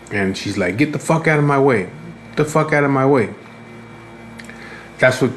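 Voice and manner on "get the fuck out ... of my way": raised-pitch imitation of a pushy woman; mock irate woman. Woman ordering shoppers out of her way, mock irate. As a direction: lightly mimic her demanding, higher voice. Retelling an angry woman's yelling.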